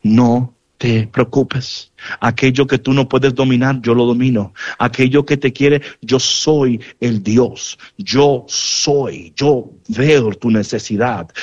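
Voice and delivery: calm a frightened disciple gently; Jesus calming his scared disciples on the water, low and soothing; reassuring voice of Jesus. Acted. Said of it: "como diciendo".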